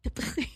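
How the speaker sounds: short wet mouth noise mimicking a tongue in the ear; imitated tongue noise. Woman showing listeners what a licked ear hears, imitated tongue noise. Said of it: "you just hear, like, a".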